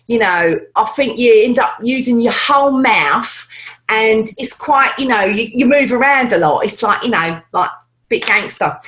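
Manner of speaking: London Cockney gangster accent; Michael Caine-style Cockney, using the whole mouth. Shown as a demonstration. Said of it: "the Cockney accent, which is like London".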